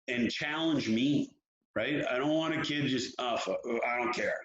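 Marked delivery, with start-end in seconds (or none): 3.2-4.4 lightly imitated indifferent kid, pitched a bit lower; low, mock-indifferent mumble of a reply; apathetic kid. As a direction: shrug it off like a kid who can't be bothered. Imitates kid who does not care.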